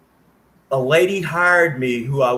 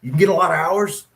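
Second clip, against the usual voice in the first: enthusiastic; 3 semitones higher, 3 dB louder, faster than usual. Retold or imitated. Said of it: "I'm like".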